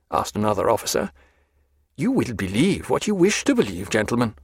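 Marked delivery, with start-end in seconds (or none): 2.0-4.3 lightly voiced, precise prisoner; composed Stephen. Stephen answering officers who doubt him, composed defiance. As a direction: answer with mild, dignified defiance.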